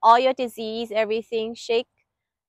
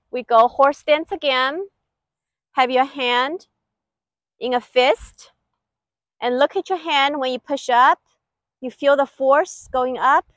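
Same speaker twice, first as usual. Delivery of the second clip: sharp martial arts commands. Shown as a demonstration. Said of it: "okay, more power".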